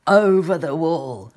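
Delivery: put-on gentle storybook reading for children; sweet old lady. A narrator's reading. Reads picture book to children.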